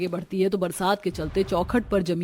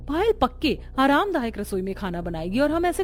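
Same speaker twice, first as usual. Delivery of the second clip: angry protest; 4 semitones higher than usual. Acted. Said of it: "जिसे देख संगीता गुस्से में".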